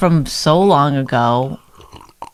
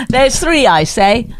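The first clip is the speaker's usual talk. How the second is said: put-on old-timey voice; 5 semitones higher, slower than usual. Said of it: "you are from this era".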